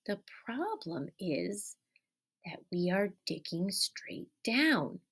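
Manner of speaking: hushed and slow, thinking it over; soft pondering voice; soft thoughtful musing. Acted. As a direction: wonder aloud quietly. Character ponders quietly.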